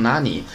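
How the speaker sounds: 哪里 said as Japanese "nani"; Japanese reading nani. Shown as a demonstration. Teacher showing how the character 和 reads, Japanese reading nani. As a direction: read 何 as "nani", voicing 哪里 that way. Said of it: "和读成哪里".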